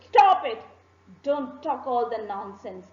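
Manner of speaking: angry king. Acted. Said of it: "He was too angry and he said".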